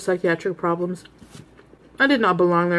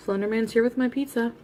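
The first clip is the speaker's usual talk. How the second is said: laughing; 4 semitones higher, 5 dB quieter than usual. Real, not acted. Repeats joke while laughing.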